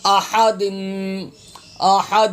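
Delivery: "احد" as a-Ha-dimm with a long hum; throat h, held m. Shown as a demonstration. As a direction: give "احد" a strong h and hold the final m. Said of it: "دال میم زیر دم".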